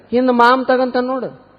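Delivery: high-pitched offhand reply; woman bus passenger. Acted. Passenger sends conductor to the man behind, high voice.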